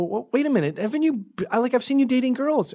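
very high, sputtering retold disbelief; mock incredulous. Man questioning his friend's dating history, high and incredulous. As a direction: stumble over a baffled objection.

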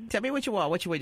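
high-pitched teasing imitation of baby talk; mock baby talk. Host mocking the caller's boyfriend, imitated baby voice. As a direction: mimic a cooing boyfriend, high.

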